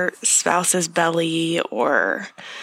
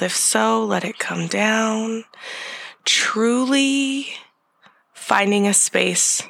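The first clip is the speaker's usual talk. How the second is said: guided meditation. Acted. Leads a breathing meditation.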